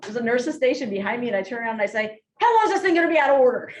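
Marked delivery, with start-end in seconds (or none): 2.4-3.7 fast, loud, panicked question; frantic question. Retold or imitated. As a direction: fire it off in a panic. Frantic at the broken elevator.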